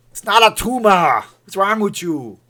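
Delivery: loud, high Austrian action-hero yell; Arnold. Shown as a demonstration. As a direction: bellow it as an exasperated strongman. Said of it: "In an Arnold voice".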